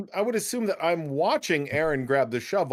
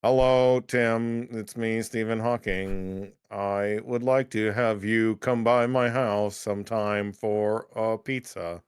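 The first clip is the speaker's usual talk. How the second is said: Stephen Hawking robot voice; slower than usual. Retold or imitated. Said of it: "Robot, robot voice?".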